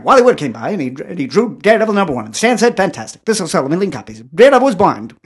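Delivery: put-on old-time radio announcer voice; 1940s radio announcer. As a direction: pitch it like vintage radio. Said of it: "sounds like a nineteen forties radio announcer".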